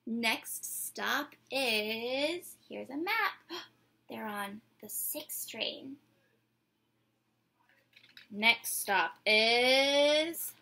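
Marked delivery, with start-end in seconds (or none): 0.1-2.5 very slow, drawn-out announcer call; subway announcer. Pretend. 8.3-10.5 very slow, drawn-out announcer call; subway announcer. Pretend.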